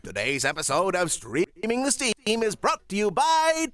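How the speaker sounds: vintage radio ad read; old-timey announcer voice; 1940s announcer. Acted. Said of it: "could you announce the sponsor?".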